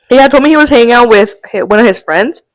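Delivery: talking between burps; burpy speech; burping. Real, not acted. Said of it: "Sorry, I keep burping".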